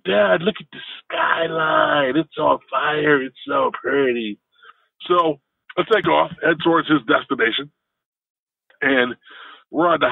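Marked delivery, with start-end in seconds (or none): 0.0-4.4 California surfer. Retold or imitated. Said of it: "California-ish surfer guy".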